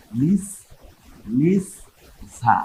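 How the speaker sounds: লিস held on its last sound, then ঝা apart; দুইবার উচ্চারণ. Shown as a demonstration. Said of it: "এই ঝাটা দুইবার উচ্চারণ". (থেমে থেমে দুইবার উচ্চারণ)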